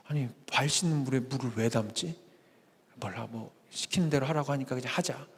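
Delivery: low, hushed grumble to oneself; puzzled murmur. Acted. Servants wondering to themselves, then complying.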